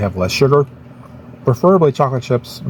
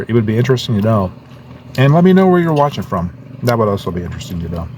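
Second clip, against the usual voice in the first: talking while chewing; mouth full; faster than usual. Real, not acted. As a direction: speak round a bite of food. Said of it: "talk with my mouth full because I'm eating".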